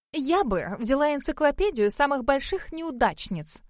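plain reading voice

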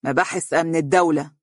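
cold falling delivery, hatred held inside; grim, resentful statement; deep-seated hatred. Acted. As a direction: say it flatly with buried malice. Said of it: "نظر أمامه بحقد دفين".

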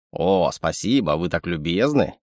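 a sly little animal sidekick; sly chittering raccoon. Acted. Raccoon mock bows.

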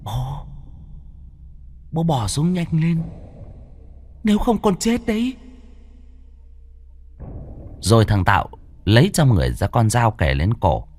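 high, soft, rising menace; hissed demand. A narrator's reading. Demon son hisses at his father to drop it. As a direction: threaten with a knife at the throat in a hiss. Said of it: "Nó gằn giọng".

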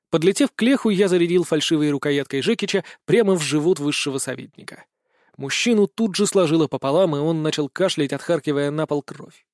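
plain reading voice

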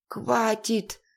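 hissed through gritted teeth. Acted. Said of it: "процедил он сквозь зубы".

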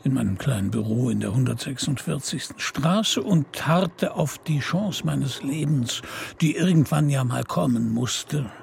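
world-weary private eye narrating; noir detective. A narrator's reading. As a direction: tell it dry, like an old crime story. Held detective narration with music. (lakonischer Krimi-Erzähler)

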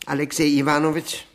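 name called out loud and fast; loud address. Acted. Guest hailing his host by name, loud. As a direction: call him by name, loud and quick.

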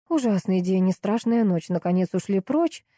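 usual speaking voice

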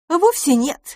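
гордое возражение, голос выше и громче; возразить с гордостью, звонко; гордо. Acted. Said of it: "гордо возразила". (гордо и звонко)

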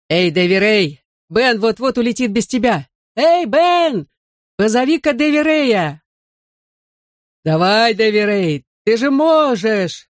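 high, stretched urging calls; calling from afar. A narrator's reading. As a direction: urge a friend on, pitch leaping up. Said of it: "отозвался из поднебесья Бен".

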